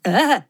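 short timid reindeer bleat; a cautious little bleat; just-in-case scared bleat. A narrator's reading. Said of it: "pro jistotu dodal".

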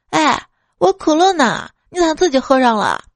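where'd my cola go, puzzled; surprised. Acted. Mother finds cola drunk. (惊讶地质问)

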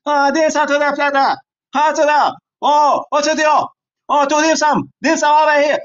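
put-on high-pitched caricature East Asian accent; mock East Asian accent. Greedy diner ordering dim sum and sushi, in a mock East Asian accent.

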